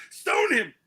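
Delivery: high-pitched heckler's shout; mock yell from the back; acted yell. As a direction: call it out over the crowd. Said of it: "some guy at the back yells".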